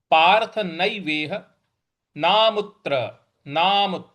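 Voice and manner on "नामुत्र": नामुत्र with a light push on त्र; stress on त्र. Shown as a demonstration. Teacher stresses त्र for students. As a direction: lean slightly into त्र of नामुत्र. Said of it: "इस पर हम थोड़ा सा आघात देंगे".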